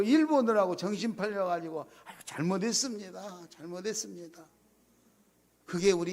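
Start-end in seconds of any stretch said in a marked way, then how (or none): 2.0-4.5 softer, sighing 아이고 then meek apology; contrite apology. Retold or imitated. Pastor confessing to God: soft contrite apology. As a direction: apologize quietly, head bowed. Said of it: "하나님, 죄송해요".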